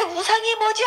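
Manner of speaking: high, plaintive puzzled question; high retold weepy query; tearful wondering. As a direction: wonder aloud mid-cry, retold. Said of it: "그렇게 우는 와중에도".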